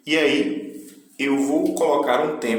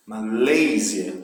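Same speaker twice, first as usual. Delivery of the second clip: slow, lower "Malásia" with weight on its English middle syllable; stress on middle syllable; 4 semitones lower, much slower than usual. Shown as a demonstration. Teacher showing where the force falls, middle of Malásia stressed. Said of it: "o Malásia é o que tem mais for".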